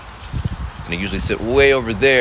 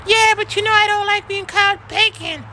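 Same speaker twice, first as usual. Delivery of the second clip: mock upset student; whiny kid. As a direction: drag out the hurt complaint. Kid complaining.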